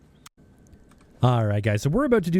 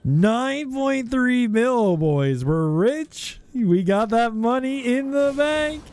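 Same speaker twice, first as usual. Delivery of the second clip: shrieking jackpot winner; 11 semitones higher, much slower than usual. Real, not acted. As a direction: squeal like you hit the jackpot. Big loot worth millions.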